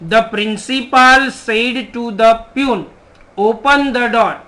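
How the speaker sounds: very slow, word by word dictation. Shown as a demonstration. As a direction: spell the sentence out slowly for the class. Teacher reads example sentence aloud. (ધીમે ધીમે લખાવવું)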